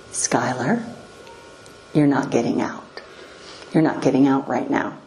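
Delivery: low, calm and gentle but firm; quiet authoritative father. Retold or imitated. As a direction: settle a toddler with calm authority. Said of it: "Quiet, peaceful, authoritative, gentle".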